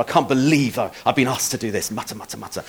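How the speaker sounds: low grumble sinking away; muttering under breath. Shown as a demonstration. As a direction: grumble it softly to yourself. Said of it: "muttering under your breath".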